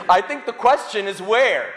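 amused punchline through a laugh; chuckling as he lands the joke. Real, not acted. Preacher teasing the congregation, laughing. Priest jokes about smashed window.

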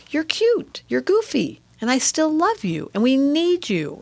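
high, tender and affectionate; tender, loving voice. Retold or imitated. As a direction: coo it like to a child. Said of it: "turn your observer on and go".

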